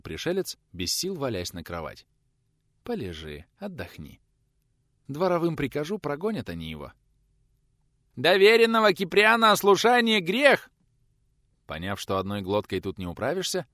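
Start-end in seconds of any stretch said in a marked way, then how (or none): 2.8-6.9 soothing wife. A narrator's reading. 8.2-10.7 squeaky yell. A narrator's reading. Youth yelling at door.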